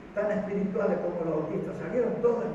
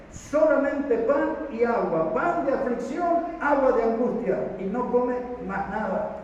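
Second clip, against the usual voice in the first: higher, slow mocking taunt; scornful taunt; 5 semitones higher, 3 dB louder, slower than usual. King Acab taunting the jailed preacher, slow and scornful. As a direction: drag it out to mock the prisoner.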